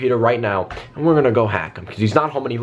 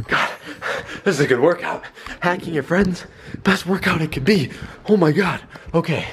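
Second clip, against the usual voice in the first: puffing between short phrases; out of breath; 2 semitones higher than usual. Real, not acted. Prankster back from running between computers, out of breath. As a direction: talk while catching your breath. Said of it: "Oh my God, I'm out of breath".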